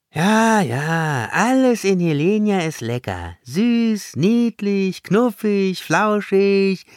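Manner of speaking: high, exaggerated long-suffering complaint; pained, mocking grumble. A narrator's reading. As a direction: grumble through the list as if each word pains you. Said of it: "grummelte Sanja mit einem leidenden Unterton".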